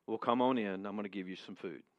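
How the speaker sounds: low, soft, resigned giving-in; sighing surrender. Acted. Worn-down neighbor to persistent caller, resigned sigh. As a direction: let it sink away like a weary sigh. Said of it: "Bill sighs real loud".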